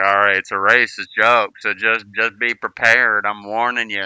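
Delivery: imitated Southern old-timer, starting loud; thick Southern accent. Old vet warning a boy about his joke, thick Southern accent. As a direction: warn in a put-on Southern accent. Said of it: "had, like, an extremely thick Southern accent".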